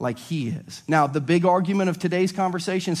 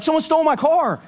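higher, louder 'Someone stole my car'; alarmed cry; 10 semitones higher, 5 dB louder than usual. Retold or imitated. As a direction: shout in sudden panic. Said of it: "would you be like".

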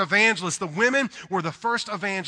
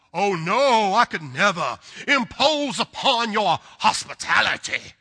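polite Southern refusal; 5 dB louder, slower than usual. Retold or imitated. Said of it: "what people do in the South".

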